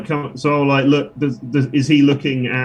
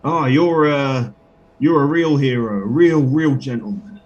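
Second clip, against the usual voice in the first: character flattery. Acted.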